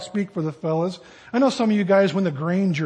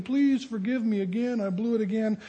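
mock pleading; 4 semitones higher, 3 dB quieter than usual. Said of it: "begging and pleading".

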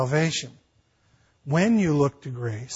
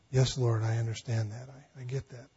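soft, fading words of agreement; Paul submitting quietly to the Lord; humble Paul; 4 semitones lower, 8 dB quieter than usual. Acted. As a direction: trail off meekly as you agree. Paul humbly answering God.

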